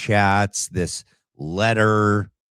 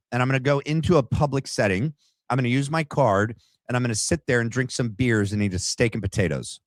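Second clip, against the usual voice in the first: higher, fast, breezy mock voice; host sarcastically voices the suspect's casual plans, higher and fast; mocking Tyler; 3 semitones higher, faster than usual. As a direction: rattle off the plans like a carefree fool. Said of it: "He's like".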